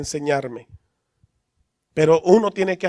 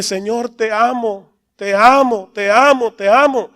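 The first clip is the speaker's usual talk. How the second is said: put-on like a child; 2 semitones higher, 3 dB louder, slower than usual. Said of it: "como un niño empiezo a decirle".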